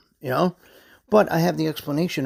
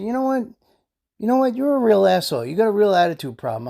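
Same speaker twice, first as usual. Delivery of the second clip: raised-pitch, mildly heated confrontation; retold indignant telling-off; 5 semitones higher than usual. Brother to rude delivery driver, retold indignant telling-off. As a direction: quote a brother calling someone out.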